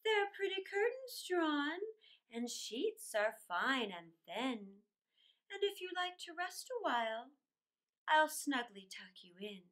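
lilting storybook reading; a children's storyteller reading verse; poem reading. A narrator's reading. Reads poem aloud.

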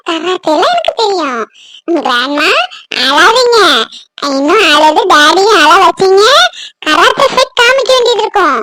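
lightly voiced little kid; boastful grandchild. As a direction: brag and playfully warn the grown-ups. Grandchild bragging, threatening karate playfully.

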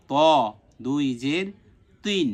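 heavy rounded ত, then thick-t তিন; dark Arabic t on ত and তিন; thick consonant. Shown as a demonstration. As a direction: spell ত দুই জের তিন with an emphatic t. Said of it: "মোটা হবে".

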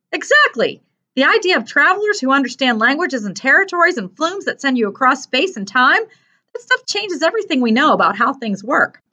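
put-on high, animated young character; earnest boy character, amazed. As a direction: voice a boy marveling at huge ideas. Narrator voices Mark.

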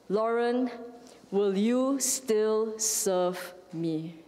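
slow, gentle and deliberate; preacher voicing God, slow and gentle. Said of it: "And then God said this".

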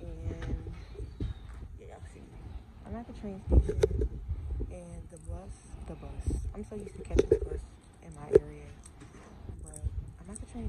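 muffled behind cloth mask; speaking with mouth covered; through a face mask. Real, not acted. Seen 3: White cloth mask covers her mouth and nose throughout the words.

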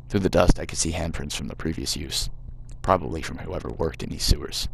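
put-on reading the game text in a light American accent. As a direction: narrate it like an American storyteller, gently put on. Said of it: "I'm really regretting doing the American voice now".

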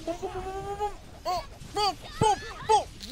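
high, quick pum pum like gunfire; gleeful shot noises. Real, not acted. Gamer mimicking his own gunfire, gleeful.

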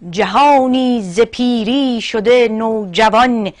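slow, measured verse reading with pauses between phrases; poem recitation. Acted. (شعرخوانی حماسی، شمرده)

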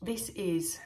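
usual speaking voice

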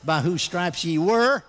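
slow scripture, climbing to a high final word; drawn-out proclamation. Acted. Preacher reads this to Mister Devil, slow rising proclamation. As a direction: stretch each phrase and build to the climax.

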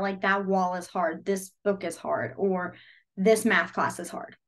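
deliberate examples. Shown as a demonstration. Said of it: "examples said slowly".

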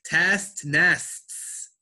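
"Test nests" with each final T released; crisp, separated "Test nests"; hard T. Shown as a demonstration. Teacher corrects a student to repeat after her, hard T. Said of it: "You made that hard T".

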